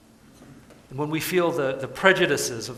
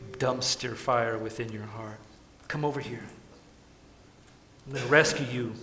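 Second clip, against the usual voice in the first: voicing Jesus. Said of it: "Jesus says to you and to me".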